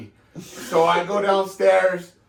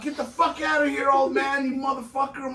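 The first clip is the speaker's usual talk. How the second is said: mock angry janitor; 7 semitones higher than usual. Janitor yelling at dad.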